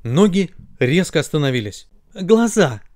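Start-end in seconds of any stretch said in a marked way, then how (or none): 2.1-2.8 sweet, high-pitched call; sweetly addressing. Acted. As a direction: call on them nicely. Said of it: "мило обратились ноги к глазам". (мило, ласково)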